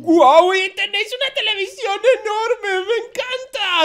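a loud, delighted gasp of a wow; amazed wow. Real, not acted. First sight of huge TV.

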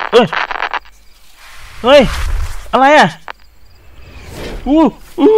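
high frightened shriek; startled yelp. Real, not acted. Jump scare in horror game. (ร้องตกใจเสียงสูง)

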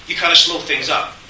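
usual speaking voice

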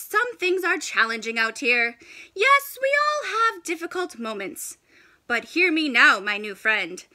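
lightly voiced, measured old walrus; wise walrus. Walrus giving the penguin a pep talk, measured and grand.

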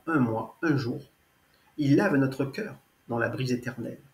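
earnest, measured verse reading; poem recitation. Acted. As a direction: recite line by line with pauses between verses. Reads own poem aloud.

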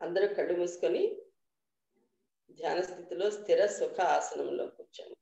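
measured meditation guidance with long pauses; guided meditation. Real, not acted. Teacher leading the group into dhyanam, guided meditation voice. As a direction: guide them unhurriedly, a little softly, phrase by phrase.

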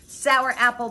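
storybook snarl. A narrator's reading. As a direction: snarl at the neighbor. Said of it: "Beatrice snarled".

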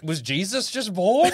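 slow, drawn-out astonished question; awestruck, half-joking disbelief; amazed onlooker. Acted. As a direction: play a mildly stunned witness, stretching it out. Acts out stunned witness at church.

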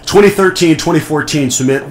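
loud, bright quiz host announcing; game show host voice. Pretend. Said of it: "my canned game show host voice".

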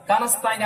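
কানাস্তাইন run together as one word; wrong joined form. Shown as a demonstration. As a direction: show the mistake of joining. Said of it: "একসাথে করবেন না". (ভুলভাবে একসাথে)

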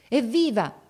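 high, loud hurrah; shouted cheer. A narrator's reading. Crowd greets the king's carriage, shouting. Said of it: "gridarono molte voci".

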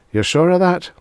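high, skeptical question; doubtful questioning. Acted. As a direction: raise it in doubt. Tarkis questions lawyer.

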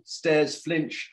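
gentle storybook reading voice; story narration. A narrator's reading. Author reading his book to young listeners, gentle storybook voice. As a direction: read the bear's story to children.

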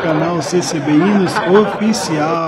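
slow, laughing through the name. Real, not acted. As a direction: get it out while laughing. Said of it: "Até que enfim saiu". (rindo, devagar)

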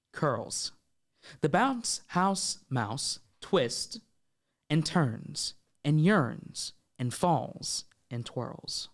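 very slow, measured poem recital; reader voice. Pretend. Host performs guest's short poem, reader voice. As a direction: space out the words, fading on the last. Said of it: "like, with your reader voice".

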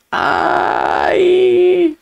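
high, loud yelp; sharp shout. Real, not acted. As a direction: yelp it out at the screen. Shouting at the screen.

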